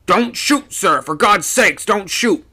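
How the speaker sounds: high, loud panicked plea; frightened shout. A narrator's reading. Second mate thinks skipper will shoot, frightened shout. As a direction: beg loudly, voice leaping up in fright. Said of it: "shouted out in a frightened voice".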